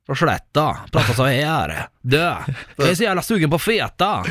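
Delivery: imitated Skara accent; mock Skara country accent; Skara dialect. Shown as a demonstration. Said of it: "Bert Karlssons kara".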